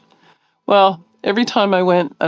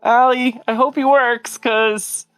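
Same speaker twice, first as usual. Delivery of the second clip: hopeful excitement; 7 semitones higher than usual. Retold or imitated.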